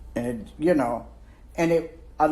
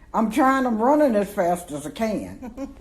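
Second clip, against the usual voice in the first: frantic; 6 semitones higher than usual. Retold or imitated. Breathless running to keep up.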